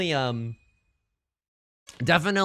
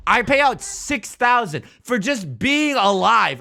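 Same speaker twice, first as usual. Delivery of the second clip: slow, loud, high hammed-up complaint; mock outrage; 6 semitones higher, 7 dB louder, slower than usual. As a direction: drag out the grievance dramatically. Repeats the complaint, first dragged out.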